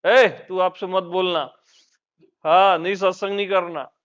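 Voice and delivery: authoritative. Retold or imitated. Guru scolding Kamjeet as one of his own, loud and commanding. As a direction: order him around with full authority. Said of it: "एकदम अधिकार से बोलता हूँ".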